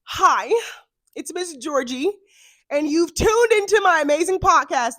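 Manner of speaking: lightly put-on American podcast host; bubbly American host intro; a hint of an American accent. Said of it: "Let me go back to my American accent".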